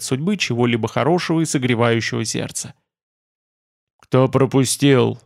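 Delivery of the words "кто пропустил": mustache twirling villain. Acted. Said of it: "зловеще прошипел пурпурный дракон".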